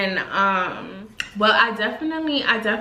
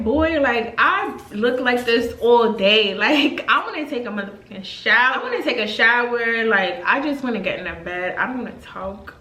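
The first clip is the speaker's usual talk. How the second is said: sassy annoyed reply. Retold or imitated. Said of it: "And I'm just like".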